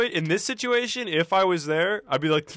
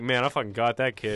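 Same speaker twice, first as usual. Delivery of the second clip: put-on lower, softer, accent-free aside as the prankster; dropped-accent impression; 4 semitones lower, 5 dB quieter than usual. Imagining the man gloating privately afterwards, accent dropped. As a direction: play him lightly, lower, with the accent gone. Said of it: "he says no accent".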